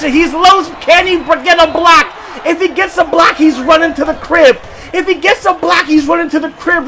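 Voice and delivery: shouting the runner toward the end zone; excited call. Real, not acted. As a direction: call the breakaway like a broadcaster. Live call, runner breaking loose.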